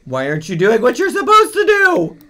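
loud, high scolding through laughter; real laughing exasperation. Real, not acted. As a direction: scold while cracking up. Scolding Sims while laughing.

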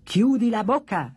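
sharp retort. Acted. Jumping Jack answers the boasting doll, retorting. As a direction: cut the braggart off. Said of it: "ribatté Jumping Jack".

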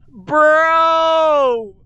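loud, drawn-out exclamation; stunned outburst. Real, not acted. Player floored by a friend's move, loud outburst. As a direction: call out in real disbelief.

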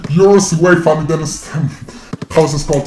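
pitch-shifted gamer voice; deep pitch shifted. Real, not acted. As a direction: voice changer on. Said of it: "do you have a voice changer on".

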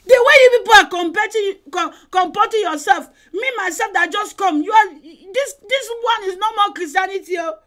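scolding rebuke. Retold or imitated. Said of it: "She will say".

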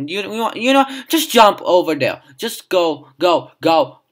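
loud, high urging of jump and go; frustrated urging. Real, not acted. Player yells at the panda to jump over, loud and impatient. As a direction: push the panda loudly to jump.

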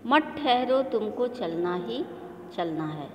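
rhythmic, measured poem reading with lifted repeats; poem recitation. Shown as a demonstration. Teacher reciting a Hindi poem for her pupils, rhythmic and measured. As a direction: recite it like a model reading for the class. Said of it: "जिस प्रकार से मैं कविता का वाचन कर रही हूँ".

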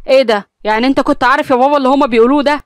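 can't believe father knew; astonished. Acted. Son startled to learn his father knew, astonished. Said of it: "أمير باستغراب قال".

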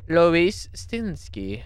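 slow, half madame voice; lighter madame voice. Acted. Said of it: "some kind of madame voice".

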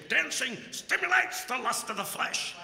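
lightly imitating his old pastor's warning; mock preachy pastor. Quoting his pastor to the congregation, mock stern. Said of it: "my pastor would always say".

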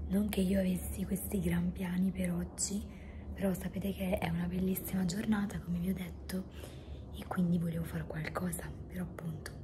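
hoarse breathy whisper; no voice left, just air; voice giving out. Real, not acted. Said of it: "non ho più voce letteralmente".

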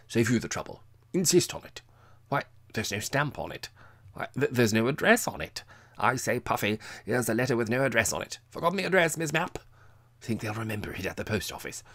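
loud, high, tipsy teasing; ribbing her with boozy bluster; tipsy jovial Major. A narrator's reading. Drunk Major mocking Miss Mapp, loud and tipsy.

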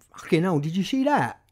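a light imitation of an Essex accent. Friend Paul after the gig, in a light Essex accent. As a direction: lightly put on Essex accent, amazed at what he saw. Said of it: "that's my impression of an Essex accent".

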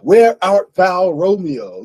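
slow, loud theatrical "Where art thou"; mock old-fashioned recitation; Shakespearean delivery. Shown as a demonstration. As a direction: declaim like a stage Juliet. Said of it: "Shakespearean English, where it's a".

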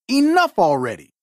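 an impatient racer's mild yell. Acted. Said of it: "yelled Sandy".

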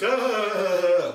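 loud, high mock laughter; imitated group laugh. Friends teasing him about his buddy, imitated laugh. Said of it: "laughs all around".

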